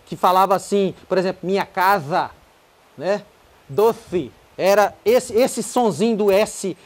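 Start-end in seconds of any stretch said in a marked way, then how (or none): 1.4-3.2 "casa" with a lisped TH-like Z; tongue-tied lisp. Retold or imitated. Teacher imitating old communist speakers, lisped "casa". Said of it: "falava com a língua presa". 3.7-4.3 "Doce" with TH for the C; tongue-tied lisp. Retold or imitated. Teacher imitating a lisping speaker, "Doce" with TH. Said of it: "com a língua presa".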